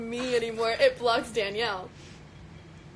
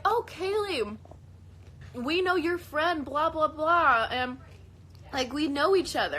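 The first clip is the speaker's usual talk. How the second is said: high, eager fan voice, drawn out on the blahs; excited fans; 5 semitones higher, slower than usual. Retold or imitated. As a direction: gush like a starstruck fan, a bit higher. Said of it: "they're like".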